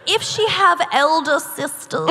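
prim mid-Atlantic etiquette reading; affected mid-Atlantic recitation; mid-Atlantic accent. Acted. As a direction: read it like a quote in a put-on mid-Atlantic accent. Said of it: "I think it's called medicated mid-Atlantic".

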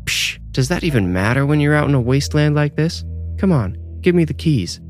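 high, scoffing demand; dismissive demand. Acted. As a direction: scoff and hold out a hand. Pia demanding keys, unlike herself.

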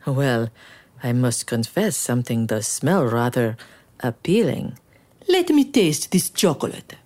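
grand, haughty king; royal king voice. Acted. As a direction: savor it like a pompous king. The king speaking.

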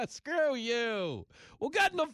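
loud, high hammed-up Bronx guy yelling at his girl; Bronx Italian yelling. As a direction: bellow it like a streetwise Italian from the Bronx calling his woman. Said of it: "Italian men romancing their women".

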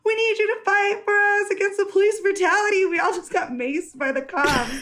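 high pleading voice, half laughing; mock pleading guys. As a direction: beg her to fight for them. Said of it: "And they're like".

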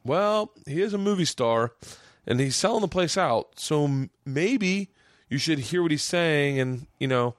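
a hint of a patient, reasoning father; imitating his dad. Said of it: "My dad's like".

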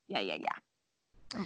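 low slow deadpan drawl; mock weary. Real, not acted. Mom agreeing sarcastically, low slow drone. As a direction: drag it out, low and tired.

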